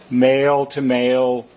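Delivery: ordinary delivery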